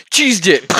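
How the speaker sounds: laughing. Real, not acted. Laughing repeat of friend's food.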